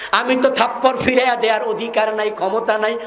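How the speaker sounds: high, tearful, weeping voice.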